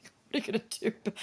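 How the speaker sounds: rapid hushed whisper; teasing whisper. Acted. Vlogger whispering a tease to Bill about his followers. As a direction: breathe it fast and secret.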